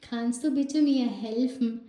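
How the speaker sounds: very slow, each word apart; slowly modelled classroom German; slow teaching demo. Shown as a demonstration. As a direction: spell the question out for learners. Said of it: "teacher demonstrating German phrase".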